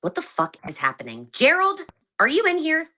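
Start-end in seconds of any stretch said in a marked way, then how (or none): 1.3-2.9 squeaky high-pitched voice; helium voice. Real, not acted. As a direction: sound like you've inhaled helium. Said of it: "Why does she sound like she's on helium?".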